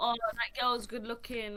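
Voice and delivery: ordinary talk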